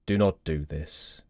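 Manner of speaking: low, slow gravelly voice for Taman; Taman's deep gravel voice. Acted. Taman stopping Watt at the grave, slow deep gravel voice. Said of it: "Taman with his deep gravel voice".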